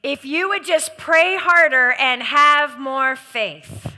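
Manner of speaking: slow, preachy nagging; slow mocking accuser. The preacher echoing a member's accuser line, slow and nagging. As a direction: drag out the guilt trip. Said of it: "repeating congregant's accuser line".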